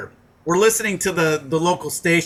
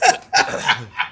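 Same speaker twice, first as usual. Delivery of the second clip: laugh; 6 semitones lower than usual. Real, not acted. Laughing at own story.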